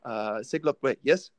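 lightly imitated Singaporean accent; a hint of a Singapore cabbie checking the address; Singaporean cab driver. Guest quoting the cab driver in a light Singaporean accent. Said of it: "so you know the Singaporean accent".

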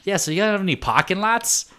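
high-pitched imitation of dad's question; Patrick. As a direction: imitate a father asking over the phone. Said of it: "my real dad Patrick called me".

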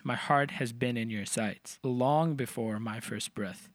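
spoken in the natural rhythm of the words; natural speech rhythm. Shown as a demonstration. Demonstrating the bridge's metrical rhythm, natural spoken stress. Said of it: "The way you say it is".

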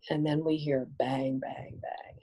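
whispered bang bang, breathy and soft; hushed gunshots. Retold or imitated. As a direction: drop to a whisper for the shots.

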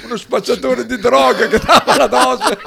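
laughing through the story. Real, not acted. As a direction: tell it while cracking up. Laughing while recalling the night.

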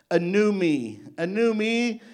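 building preaching. Acted. Preacher rejoicing to the church about the new self, building. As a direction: lift it into a joyful cry.

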